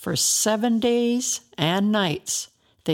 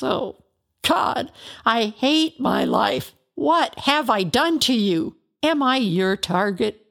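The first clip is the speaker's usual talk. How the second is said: anguished cry to God; 4 semitones higher, 3 dB louder than usual. Acted. Job cries out to God.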